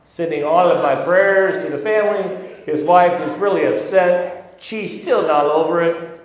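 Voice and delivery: high, loud hammed-up Italian accent; leading the congregation in a hammed-up Italian accent. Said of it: "you have to do it in an Italian voice".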